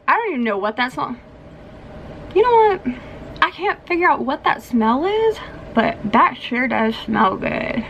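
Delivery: slightly slurred, groggy speech; talking funny. Real, not acted. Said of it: "I'm talking funny".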